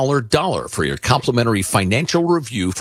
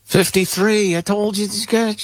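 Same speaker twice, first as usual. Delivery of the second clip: mock royal voice; 12 semitones higher than usual. Mock king voice, rambling.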